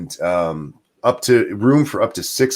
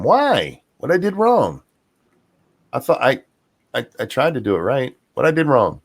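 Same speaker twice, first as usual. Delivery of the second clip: whiny innocent; 4 semitones higher than usual. Pretend. Mock innocence at a scolding.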